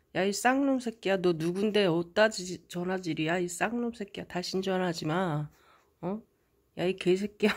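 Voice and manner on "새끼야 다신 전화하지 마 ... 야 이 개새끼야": ordinary talk, nothing marked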